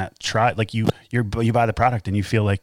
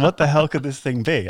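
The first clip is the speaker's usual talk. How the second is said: retold disbelief; 5 semitones higher than usual. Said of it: "I was just, like, blown away".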